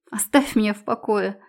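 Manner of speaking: spluttering through water; choking on water. Acted. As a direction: gasp it while choking on water. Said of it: "шепчу, захлёбываясь водой".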